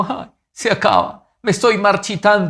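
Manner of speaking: frustrated, sad, high-pitched lament. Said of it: "gente que envejece frustrada, triste".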